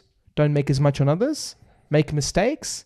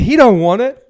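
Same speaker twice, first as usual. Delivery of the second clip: American accent; 8 semitones higher, 11 dB louder than usual. Shown as a demonstration. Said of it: "gonna do my best American accent".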